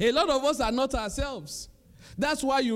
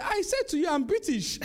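irritated; 7 semitones higher than usual. Retold or imitated. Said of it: "the guy got really mad".

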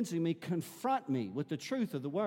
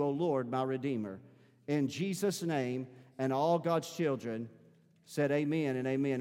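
prayer; 3 semitones lower than usual. Acted. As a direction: pray it gently to a close. Closing prayer.

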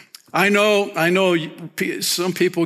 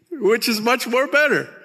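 higher, relishing much more better; mock-proud reading of much more better; bad English, with gusto; 8 semitones higher than usual. Shown as a demonstration. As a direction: savor the broken grammar, grinning. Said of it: "Let's read that bad English again".

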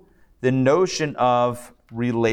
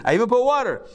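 high, boastful showman voice; Elijah the showman; 12 semitones higher, faster than usual. Retold or imitated. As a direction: show off like a magician at a crowd. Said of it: "He's like".

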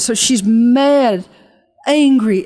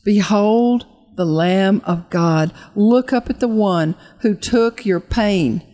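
guided altar call; slower than usual. Acted. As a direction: draw them gently toward Jesus. Leads the audience in prayer.

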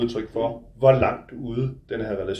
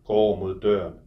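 measured literary reading, close and intimate; novel reading. A narrator's reading. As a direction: author reading his own book aloud. Author reads his novel aloud.

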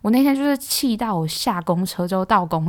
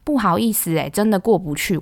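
a touch louder, pointed excuse me; 3 semitones higher than usual. Retold or imitated. Telling a blocking passenger to move, mildly loud. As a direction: make the whole bus hear it. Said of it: "然后我就很大声的说".

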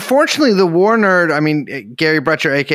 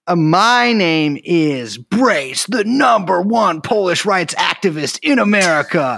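mock Slavic accent; 2 semitones higher than usual. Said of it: "it's my Russian accent".

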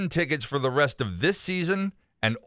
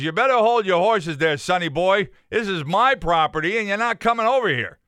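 gruff farmer; 3 semitones higher, 3 dB louder than usual. Acted. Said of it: "the old farmer's gruff attitude".

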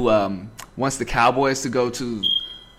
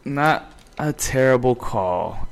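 slow, drawn out; 3 dB quieter, slower than usual. Shown as a demonstration. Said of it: "said twice".

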